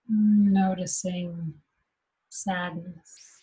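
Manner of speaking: unhurried meditation guide, long pauses between phrases; guided meditation. Acted. Teacher guiding meditators to rest in what's happening, guided meditation. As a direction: guide them gently into noticing, leaving long silences.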